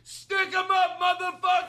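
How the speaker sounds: high, strained robber yell; shouted hold-up. Acted. Robber starting the hold-up, high acted shout. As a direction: shout the threat at the top of your range.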